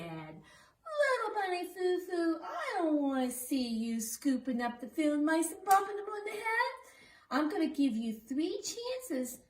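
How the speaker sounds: lightly voiced stern fairy; good fairy. Fairy scolding the bunny in the song. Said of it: "down came the good fairy and she said".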